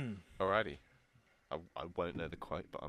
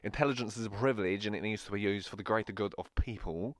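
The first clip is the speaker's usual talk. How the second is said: lightly put-on Staffordshire accent. Reading a film quote for the guesser, Staffordshire accent. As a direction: say it Staffordshire-like, a little bit wrong. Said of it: "I'm gonna say it staff-like".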